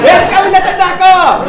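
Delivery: high, slow, loud call to the crowd; rallying shout. Acted. Comedian asking the audience to agree, rallying shout. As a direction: whip up the room at full voice.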